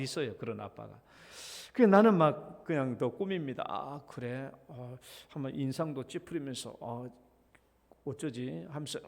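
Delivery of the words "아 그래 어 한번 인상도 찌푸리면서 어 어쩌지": quiet, hammed-up fake worry; mock serious. Dad pretending to be worried, to his child, in a quiet mock-serious voice. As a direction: pretend to be troubled, sighing. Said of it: "막 심각한 척 하면서도".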